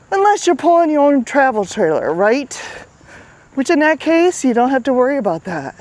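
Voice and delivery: breathless while walking; talking winded on a walk; out of breath. Real, not acted. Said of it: "I'm a little bit out of breath".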